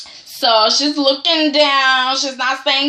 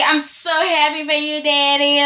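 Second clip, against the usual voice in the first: mock sweet son; 3 semitones higher than usual. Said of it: "Rick is like".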